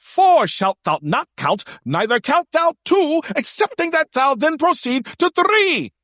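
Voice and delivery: high, loud holy-scripture proclamation; totally different voice. Retold or imitated. Contact reciting the counting rules, high loud proclamation. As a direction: declaim it like a pompous cleric at full pitch. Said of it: "in a totally different voice".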